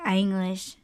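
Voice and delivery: "English" with a widened first vowel; others' pronunciation. Retold or imitated. Showing how some people say it, wide-vowelled "English". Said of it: "heard people say it like".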